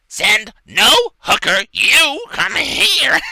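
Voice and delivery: high, slow, shouted goblin voice. Acted. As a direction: screech it like a gleeful goblin.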